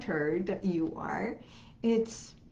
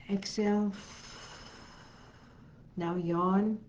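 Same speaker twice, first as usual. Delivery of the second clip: guided meditation. Acted. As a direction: guide them gently into calm.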